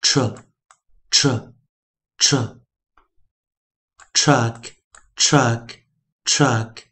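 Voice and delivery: tr as "truh", then truck whole; slow, spaced drill from tr "truh" to truck; three separate tr blends, then three of truck; phonics blending. Shown as a demonstration. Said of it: "听一下啊".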